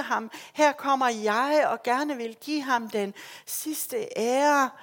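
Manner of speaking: anguished lament. Acted. Maria at the empty tomb.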